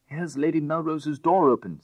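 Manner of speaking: alarmed call. A narrator's reading. Crowley alarmed at open door.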